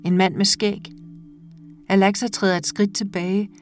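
measured, intimate reading of a short story; calm audiobook narration with lightly voiced dialogue. A narrator's reading. Reads a short story aloud.

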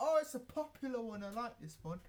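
high, loud mock crowd voice, hammed-up. Mocking the crowd at metal gigs, high squealing fan voice. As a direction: squeal it like a fan who knows one hit. Imitating crowd recognising song.

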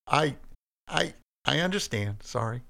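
high, stammering apology; humbled. A narrator's reading. Cain apologizes to God after the warning, humbled. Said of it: "in a slightly more humble tone".

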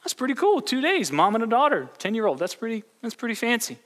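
high, amazed retold reaction; impressed whoa. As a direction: play the wide-eyed hiker hearing two days. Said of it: "I was like".

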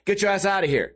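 high-pitched retold "beat it"; retold hostile dismissal. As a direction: imitate a guy picking a fight with a neighbor. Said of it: "gets into it with him".

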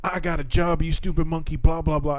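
high, hammed-up angry rant; mock racist rant. Retelling a racist man's rant at his neighbour, high mock fury. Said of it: "he's like".

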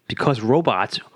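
slow monotone robot voice. Acted. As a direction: speak slowly like an animatronic. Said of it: "sound like a fucking robot".

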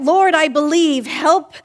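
mock cry. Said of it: "the father cried out".

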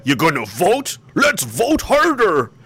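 slow, high mocking sneer; sarcastic. A ranter mocking people who think voting helps, sarcastic. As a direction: drag it out in mockery.

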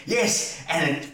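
high, laughing through the words; can barely get it out for laughing. Retold or imitated. Backstage, telling Pete the spot was hilarious, laughing hard. Retelling his laughing reply.

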